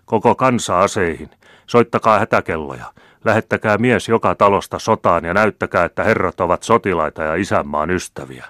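rally the whole country to war; rousing call to arms. A narrator's reading. General calls the nation to arms.

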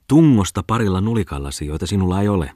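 lightly voiced scornful taunt; a touch of sneering mockery; mocking jeer. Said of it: "ilkkui Tommola". (pilkallinen ivailu)

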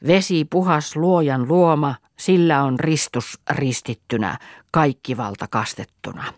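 measured blessing over water; recited charm. A narrator's reading. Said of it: "veti kolme ristiä veteen ja luki". (loitsua lukien)

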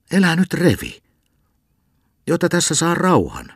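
put-on old man wakes and scolds the cantor; grumpy old man. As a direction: order him off, annoyed. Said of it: "jo käski".

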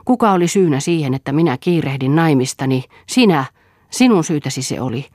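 loud, rising reproach; heated accusation. Acted. Lea hotly blames her father for her hasty marriage. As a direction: blame him hotly, hitting Sinä. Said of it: "sanoi Lea ja kiivastui".

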